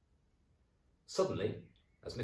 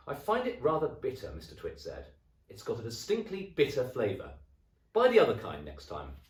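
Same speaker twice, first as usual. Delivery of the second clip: grumpy husband; 6 semitones higher, 6 dB louder than usual. Acted. Grumbling husband.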